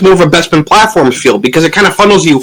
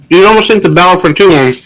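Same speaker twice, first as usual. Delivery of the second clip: talking with food in mouth; mouth full. Real, not acted. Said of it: "I had food in my mouth".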